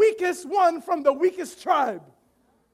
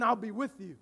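soft divine promise; 5 semitones lower, 9 dB quieter than usual. Acted. God's reply voiced softly.

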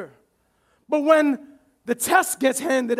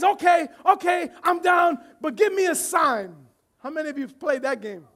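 eager Gideon; 3 semitones higher than usual. Acted. Gideon bargaining with God, acted.

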